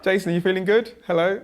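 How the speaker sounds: high, loud, eager checking; hammed-up mother fussing over her boy; excited mum. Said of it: "that was just".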